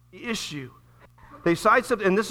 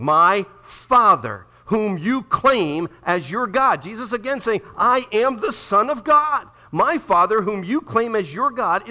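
preaching scripture. Acted. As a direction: lean hard into My Father. Preacher voicing Jesus' reply.

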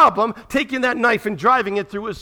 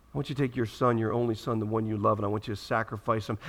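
hushed retelling; 8 semitones lower, 7 dB quieter than usual. Acted. Preacher repeating God's words to congregation, hushed. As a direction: lower and softer "I want you to take your son, your only son". Command retold hushed and low.

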